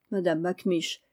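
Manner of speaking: usual speaking voice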